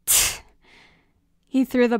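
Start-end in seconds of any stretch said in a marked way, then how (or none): 0.1-0.4 short "tch" of disgust; sharp dismissive tsk; scornful tongue click. Acted. Scowling, turns away in contempt.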